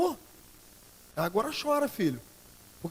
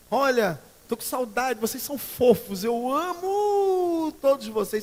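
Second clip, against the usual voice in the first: higher, slow, drawn-out "amo" in sugary parody; mock gushing; 5 semitones higher, 5 dB louder, slower than usual. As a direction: overplay the fake online love. Mocking fake Facebook affection.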